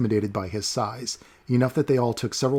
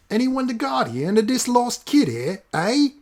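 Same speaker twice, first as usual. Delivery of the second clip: high, raised rough call to the crowd; 12 semitones higher, 3 dB louder than usual. Acted. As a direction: shout it to the crowd. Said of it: "he called out".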